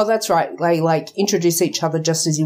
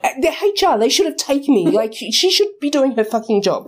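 higher-pitched indignant grumble; a little angry; 5 semitones higher than usual. Acted. Lost new starter blaming HR for leaving him, a little angry. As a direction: complain with mild mock anger. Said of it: "get a little bit angry".

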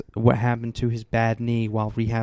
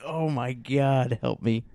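pained groan; 6 dB quieter, slower than usual. Retold or imitated. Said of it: "I'm like".

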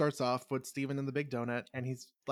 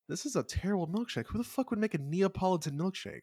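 higher-pitched put-out customer; mock disgust; 5 semitones higher than usual. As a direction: lightly act out a fed-up customer. Voices the disgusted milkshake customers.

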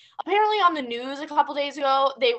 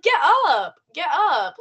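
firm command; 3 semitones higher, 5 dB louder than usual. Retold or imitated. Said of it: "I'm like".

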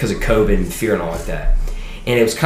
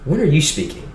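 put-on Southern Baptist old boy; 7 semitones higher than usual. Dean of students reassuring the scared kid, hammed-up high Southern voice. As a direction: play the hearty Southern dean, pitched way up. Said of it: "that dean of students walked to me and goes".

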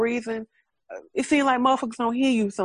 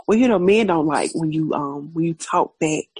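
lightly voiced father; 5 semitones lower, 4 dB louder than usual. Voicing her father's advice.

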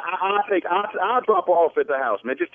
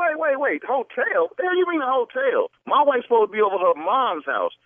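rising anger. Real, not acted. Husband hears wife at hotel.

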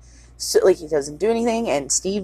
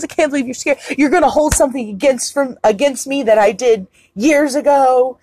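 mock tirade; 4 semitones higher, 3 dB louder than usual. Retold Annie tirade.

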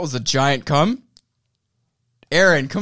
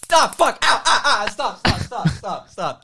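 yelling in pain; 5 semitones higher, slower than usual. Real, not acted. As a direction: scream it in real pain. Being shocked.

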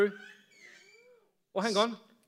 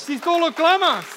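loud, raised preaching voice; fervent urging; 3 semitones higher, 4 dB louder than usual. Acted. Preacher offering hope to someone in despair, loud and fervent. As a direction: press the promise home loudly.

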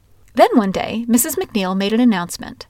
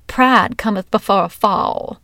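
chiding. Retold or imitated. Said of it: "she chided".

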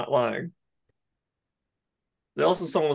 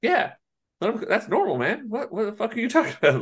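mock bro voice; 8 semitones higher than usual. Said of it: "they're like".

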